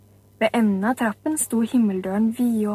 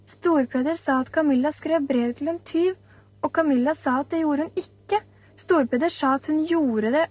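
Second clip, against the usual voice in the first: put-on lightly higher, earnest little girl; girl's voice; 3 semitones higher than usual. Maren tells the teacher what happened, lightly voiced girl. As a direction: tell it like a serious schoolgirl, gently voiced.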